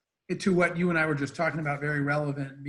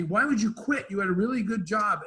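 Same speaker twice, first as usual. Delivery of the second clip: higher-pitched mock scolding, no real yell; retold yelling mom; 4 semitones higher than usual. Mom to her son who quit his job, mild mock yelling. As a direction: imitate a mom's exasperated telling-off, lightly. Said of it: "my mom's yelling at me".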